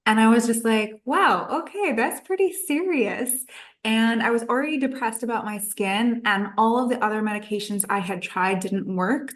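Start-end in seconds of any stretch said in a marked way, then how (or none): 1.0-3.4 higher, swooping wow of dawning concern; retold alarmed surprise. Recalling reading the side effects of acne medication, taken aback. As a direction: react taken aback, pitch leaping up and down.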